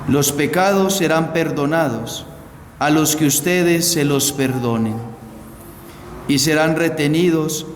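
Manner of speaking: measured liturgical reading voice; Gospel proclamation. Acted. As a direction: read the Gospel solemnly to the congregation.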